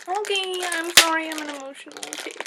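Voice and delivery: a little teary, pitch lifting on the apology; crying a little. Real, not acted. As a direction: apologise through a few real tears. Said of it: "I'm crying a little bit".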